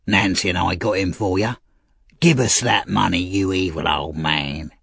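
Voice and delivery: restrained, threatening demand; Bill Sikes demanding. Acted.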